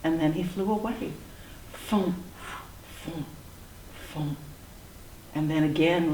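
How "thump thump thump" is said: soft, puffed, separate thumps; fading wingbeats. A narrator's reading. Flying dinosaur flies away, soft fading thumps. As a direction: puff each flap as it gets farther off.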